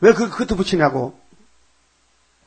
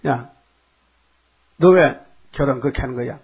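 scolding reproach; 3 dB louder than usual. Retold or imitated. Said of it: "민수기 십이 장에".

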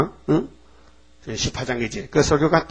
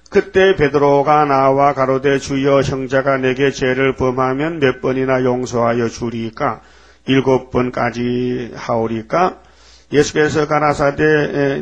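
slow, measured Bible reading; solemn scripture reading; slower than usual. Acted. Preacher reads Matthew to the congregation, slow and solemn. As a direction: read each word of scripture slowly.

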